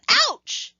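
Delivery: yelled ouch. Acted. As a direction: yelp it like you just sat on sharp rocks. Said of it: "jumped up and yelled".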